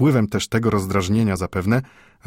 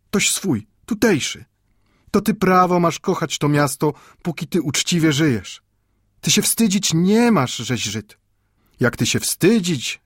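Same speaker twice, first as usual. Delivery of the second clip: higher, pleading lesson from a Jewish elder; earnest old grandfather; 7 semitones higher, 3 dB louder than usual. Acted. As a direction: persuade the boy to be proud, with heat. Mendel teaches pride.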